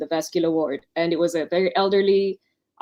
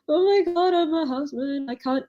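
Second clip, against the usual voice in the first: much higher, panicked squeak of dread; mock panic; 9 semitones higher than usual. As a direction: squeak it out like a terrified new houseman. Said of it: "And I'm like".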